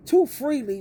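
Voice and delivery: usual speaking voice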